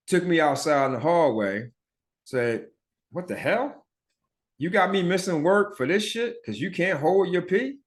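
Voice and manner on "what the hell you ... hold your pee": higher-pitched, incredulous mother; imitated scolding mom. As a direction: play a mom demanding an explanation. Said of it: "Mom came up".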